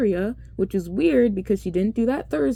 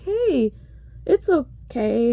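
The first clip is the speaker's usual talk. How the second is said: soothing; 3 semitones higher, slower than usual. Retold or imitated. Wiping a crying child's eyes.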